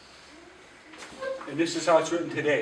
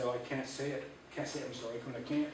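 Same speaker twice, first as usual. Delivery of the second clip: softer, giving-up mumble; mock defeatist whine; 2 semitones lower, 11 dB quieter, faster than usual. Teacher mocking a reluctant student, soft whine. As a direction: imitate a student who gives up. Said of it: "rather than just say".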